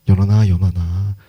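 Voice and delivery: low, level, comforting name-call; soothing. Acted. Preacher voices Jesus comforting a congregant by name, soothing. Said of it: "반복해서 이름을 부르시면서 다독거려 주신다고요".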